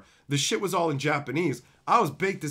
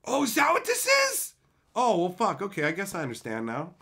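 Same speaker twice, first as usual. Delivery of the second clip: sudden realization. Retold or imitated. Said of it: "I'm like".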